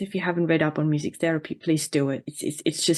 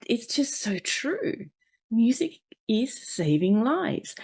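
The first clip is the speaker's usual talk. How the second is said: slow, choked-up and teary; 3 semitones higher, slower than usual. Real, not acted. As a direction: hold back tears as you speak. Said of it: "I'm getting a bit teary".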